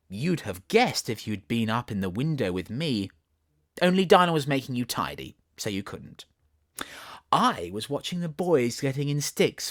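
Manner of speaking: Alice chatting to kitten. Acted. Alice asking her kitten about tomorrow, lightly voiced little girl. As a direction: coax the kitten with a secret.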